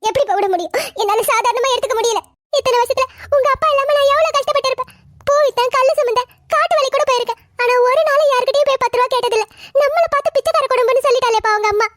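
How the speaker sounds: weeping lament; tearful. Acted. Mother recounting her hardships to her son, crying. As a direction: pour out old hardship through tears. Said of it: "அழுதுகிட்டு இருக்கீங்க".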